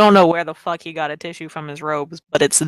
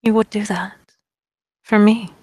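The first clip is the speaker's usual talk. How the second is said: calm, silky villain; 3 semitones higher, 3 dB louder than usual. Acted. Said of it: "he just very calmly says".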